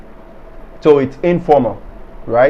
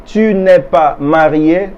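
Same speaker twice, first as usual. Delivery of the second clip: slow repeat. Shown as a demonstration. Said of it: "For example".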